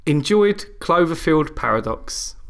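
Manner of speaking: slow, deliberate reading of a text; slow reading aloud. Shown as a demonstration. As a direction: read the message out word by word. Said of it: "here's the proofs in the pudding".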